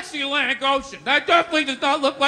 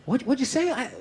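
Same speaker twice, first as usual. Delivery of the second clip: soft, higher, gentle questioning; coaxing a child; 4 semitones higher, 3 dB quieter than usual. Retold or imitated. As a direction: imitate coaxing a shy kid closer. Coaxing the dream child closer.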